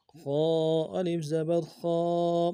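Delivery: خا pronounced heavy (moṭā); heavy kha. Shown as a demonstration. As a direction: give خا a full, thick throaty sound. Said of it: "خا کو موٹا ادا کرنا ہے".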